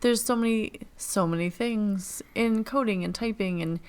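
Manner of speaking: mock-eager rush of ideas; excited quote. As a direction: gush it out quickly, lightly acted. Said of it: "I'm like".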